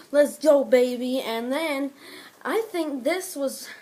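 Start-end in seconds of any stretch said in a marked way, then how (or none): 0.1-1.2 loud fired-up yell; pumped wrestler shout; hyped shout. Retold or imitated. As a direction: shout it like ripping off a jacket. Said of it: "he ripped off his jacket and was like".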